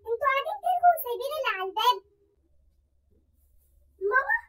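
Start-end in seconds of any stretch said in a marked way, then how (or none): 0.1-2.0 scolding. Acted. Mother scolds girls.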